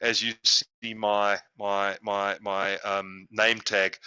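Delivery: slow, careful email dictation. Real, not acted. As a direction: spell out the address slowly, with pauses. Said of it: "just to say it very slowly".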